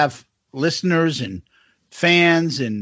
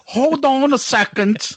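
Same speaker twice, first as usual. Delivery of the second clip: put-on a rough, jokey New Zealand accent, pitched up; 7 semitones higher than usual. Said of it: "this is my New Zealand accent".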